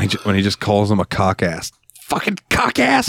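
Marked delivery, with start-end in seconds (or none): 2.0-3.1 high, drawn-out mock yell; shouted insult. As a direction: hurl it slowly as a film insult. Acts out film insult.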